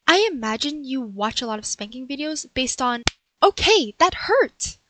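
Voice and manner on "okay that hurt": higher and much louder, stung; spanked burglar crying out that it hurt; pained outburst. Acted. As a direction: cut off mid-sentence by a hard slap. Spank interrupts her.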